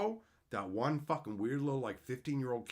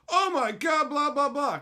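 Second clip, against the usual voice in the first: higher, louder fake shock; mock freakout; 12 semitones higher, 10 dB louder than usual. Streamer mocking how she won't overreact, mock freakout. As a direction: ham up a gasping overreaction.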